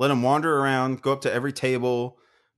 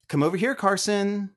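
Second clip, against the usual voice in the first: higher-pitched huffy mom imitation; annoyed mom; 6 semitones higher than usual. Mom pulling Carson from the door, annoyed imitation. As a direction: call the kid over, mildly annoyed. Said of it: "like, all annoyed with me".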